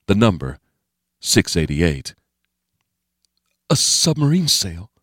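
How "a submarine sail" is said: much higher character voice; Steve's voice. A narrator's reading. Steve recognizing the shape, higher character voice. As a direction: lift the pitch for the character, keep it unforced.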